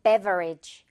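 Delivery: Beverage with a clear open 'e' as in 'bet'; first syllable of Beverage said 'be', not 'bi'; correct vowel. Shown as a demonstration. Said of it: "베라고 해줘야 돼요". (첫 음절을 '베'로 또렷하게 발음한 Beverage)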